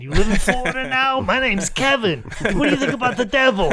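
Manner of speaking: high, loud, fast creepy come-on voice; Kevin Sullivan impression. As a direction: ham up a leering pickup line, high and loud. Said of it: "if that was not Kevin Sullivan's first line to her".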